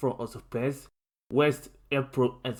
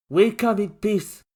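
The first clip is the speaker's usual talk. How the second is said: raised, sly friendly voice; dark smiling greeting; 8 semitones higher, 7 dB louder than usual. A narrator's reading. Mikey greets Lincoln with a dark smile. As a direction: grin through it. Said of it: "with a black smile".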